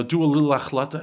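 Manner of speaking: offhand imitated mentor suggestion; mock perfunctory counsel; dismissive advice. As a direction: toss it off as token advice. The useless mentor's small advice.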